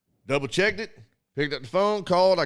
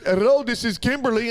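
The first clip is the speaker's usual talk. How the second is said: higher, chipper call-center greeting; phone agent voice; 7 semitones higher, 4 dB louder than usual. Retold or imitated. Mocking the next call-center agent, higher and chipper. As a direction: do the bright scripted phone hello.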